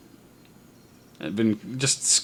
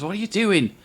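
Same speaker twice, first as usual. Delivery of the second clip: annoyed hissed rebuke; 4 semitones higher than usual. Acted. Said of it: "younger one clips him ... and says".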